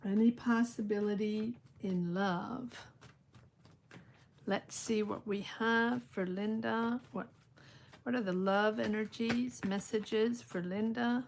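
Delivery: hushed, meditative tarot query; card-reading invocation. Real, not acted. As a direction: ask the cards quietly, as if focusing inward. Intones questions to the cards.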